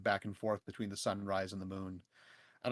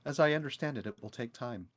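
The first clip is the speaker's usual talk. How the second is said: calm character voice; 2 semitones higher than usual. Acted. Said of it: "Ori would have had a response".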